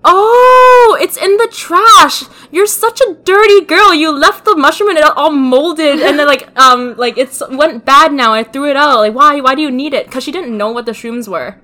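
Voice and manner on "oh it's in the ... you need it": higher, louder mock mom scolding. Mom scolding her daughter over moldy mushrooms, in a hammed-up voice. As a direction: imitate mom telling her off.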